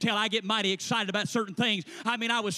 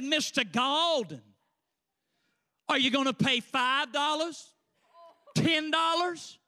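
snarky clerk; 4 semitones higher than usual. Acted. Registrar asking a student what he will pay, snarky. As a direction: mimic a snarky office woman, pitched up. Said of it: "she had that snarky snarl".

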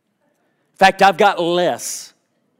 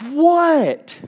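startled what; 11 semitones higher than usual. Retold or imitated. Startled reply in the car.

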